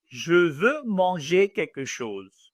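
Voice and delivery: slow, careful standard French. Shown as a demonstration. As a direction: say it in textbook French. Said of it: "In normal French".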